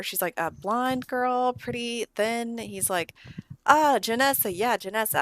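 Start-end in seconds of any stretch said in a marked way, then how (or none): 0.4-2.6 high, slow, drawn-out prompt. Acted. Girl jogging the man's memory, high and slow prompting. 3.7-5.2 high, loud burst of recognition; acted "now I remember", voice jumping up; sudden recognition. Man suddenly remembers an old girlfriend, loud dawning recognition.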